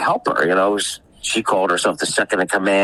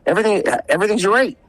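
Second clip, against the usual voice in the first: mock cheerful; 12 semitones higher, faster than usual. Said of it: "He says".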